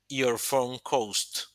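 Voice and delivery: your phone cost drawn out slowly; slow example phrase. Shown as a demonstration. Teacher building the example sentence slowly for students. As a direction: lay the words out one by one. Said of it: "auxiliar does".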